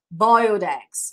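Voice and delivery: slow clear teacher model of "boiled eggs"; model pronunciation. Shown as a demonstration. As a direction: say "boiled eggs" slowly for students to repeat.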